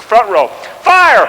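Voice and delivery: slow, loud call to fire; an officer restarting the volley; drawn-out command. Retold or imitated. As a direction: stretch out the order. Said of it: "drill command".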